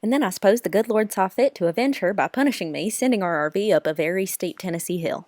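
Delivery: lightly put-on Southern country accent; Kentucky McCare. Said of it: "talking in these funny accents".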